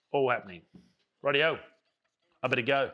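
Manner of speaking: breathless, puffing between words; winded from walking; out of breath. Real, not acted. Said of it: "I'm out of breath".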